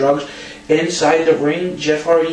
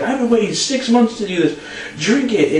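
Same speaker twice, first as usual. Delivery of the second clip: high-pitched mock demand; Ric Flair; 7 semitones higher than usual. Co-host retells wrestler urging partner to drink, mock insistence. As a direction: imitate a worked-up wrestler giving an order. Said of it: "And then Flair's like".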